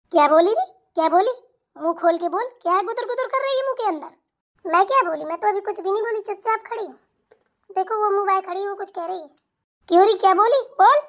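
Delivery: lightly voiced old mother-in-law, berating with loud bursts; scolding mother-in-law. Mother-in-law berates her son for pressing his wife's feet.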